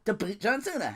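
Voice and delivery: mocking AJ. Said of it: "A J's like".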